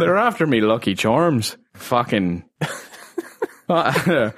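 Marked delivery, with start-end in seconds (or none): 0.0-1.6 cartoon cereal-ad Irish; Lucky Charms mascot. Clowning for co-host, stage Irish mascot accent.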